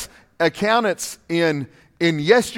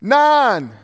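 doctor counting down; 8 semitones higher, 7 dB louder, much slower than usual. Retold or imitated. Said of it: "And the doctor said".

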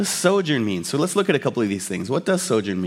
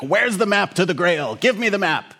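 a hint of a movie villain, raised pitch; lightly voiced Nazi interrogator; 4 semitones higher than usual. Nazi questioning tied-up captives, lightly acted villain. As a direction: lightly act out a demand for answers. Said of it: "there's this Nazi who's talking".

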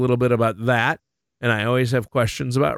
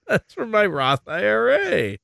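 put-on kid voice; 9 semitones higher than usual. Echoing the kid's sound clip.

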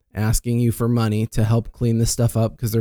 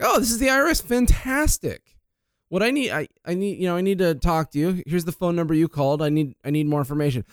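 mock delight; 5 semitones higher than usual. Mock-excited reply to scammer.

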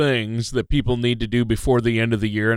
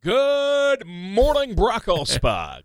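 drawn-out greeting; 9 semitones higher, much slower than usual. Acted.

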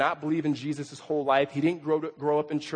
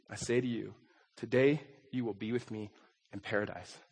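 scripture reading. Acted. Reads scripture passage aloud.

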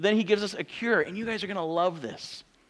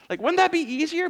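sarcastic; 12 semitones higher, 4 dB louder than usual. Acted. Mock suggestion of throwing plates.

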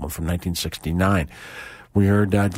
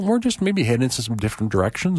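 ordinary talk

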